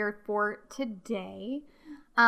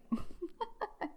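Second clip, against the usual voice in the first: giggle; 9 semitones higher, 10 dB quieter than usual. Real, not acted. Laugh after self-deprecation.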